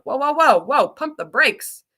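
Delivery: loud playful protest at the pace; mock overwhelmed protest. Teacher reacting to too-fast test audio, loud mock protest. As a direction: call a halt, as if overwhelmed. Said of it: "I'm like".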